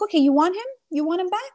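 high, loud, challenging questions; mock-heated demand to her mother; exasperated challenge. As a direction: throw it back at her in a heated rise. Fight with her mother, quoted.

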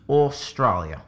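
put-on Australian, like an Englishman on holiday; Australian accent. Testing the holiday Englishman theory, mock Australian accent. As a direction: try the word with an Aussie accent. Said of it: "is the voices of an Australian".

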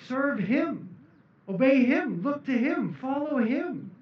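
preacher rousing the church; rising preaching. Shown as a demonstration. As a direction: preach it, building up. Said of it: "It says".

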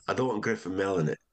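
lightly imitated Scottish accent. Comedy head objecting to the casting, imitated Scottish accent. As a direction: object with a hint of Scots. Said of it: "I was Scottish, by the way".

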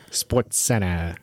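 low, slow announcer voice. Pretend. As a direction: boom it like a sports anchor. Announcer imitation.

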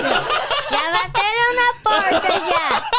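startled laughing exclamation; surprised. Real, not acted. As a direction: blurt it out, surprised and giggling. Real knock at the door.

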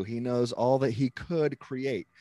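slow, with COULD leaned on; heavy emphasis on "could"; stress on COULD. Shown as a demonstration. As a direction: draw out and underline "could". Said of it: "the heavy emphasis on the word could".

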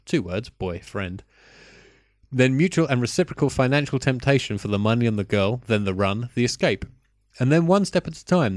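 reading a review in a put-on French accent. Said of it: "warm up the French accent again".

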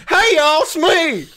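loud annoying Poe. Acted. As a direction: announce yourself like an obnoxious bro. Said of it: "so loud and annoying".

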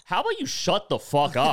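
loud, high, laughing mock snap; picture telling the manager off, half laughing; imagined snap at boss. Telling his manager off at work, laughing mock snap. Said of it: "be like".

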